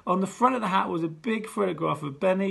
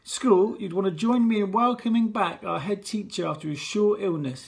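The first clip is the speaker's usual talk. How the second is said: pompous teacher; 4 semitones higher, 4 dB louder than usual. Acted. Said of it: "he continued".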